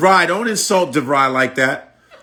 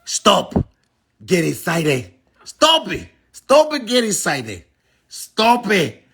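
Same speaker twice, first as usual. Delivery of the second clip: mock Hispanic accent; 3 semitones higher than usual. Mocking a commenter's English, in a broad Hispanic accent. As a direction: plead and scold in a thick fake Hispanic accent.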